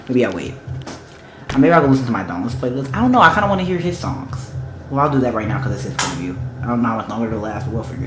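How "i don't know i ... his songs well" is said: ordinary talk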